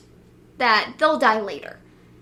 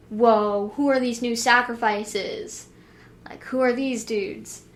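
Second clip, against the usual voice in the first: lightly voiced laid-back bro; a hint of surfer dude drawl; slower than usual. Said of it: "Why am I doing my bro voice?".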